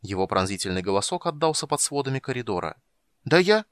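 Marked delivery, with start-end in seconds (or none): 3.2-3.6 cut off mid word. Acted. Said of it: "замолчал на полуслове".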